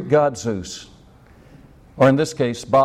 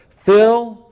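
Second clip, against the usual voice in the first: commanding call; 8 semitones higher, 8 dB louder than usual. Acted. Elijah commanding.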